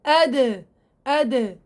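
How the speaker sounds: أد with a bouncing echo on the د; qalqala demo. Shown as a demonstration. Teacher showing students the voiced د in أد. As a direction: sound أد with the د released in a small rebound. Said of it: "بدي أحس بالاهتزاز".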